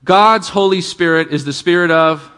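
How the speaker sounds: measured prompt, inviting them to finish it. Shown as a demonstration. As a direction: spell it out a bit slowly for the audience. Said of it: "Let me say that again very slowly".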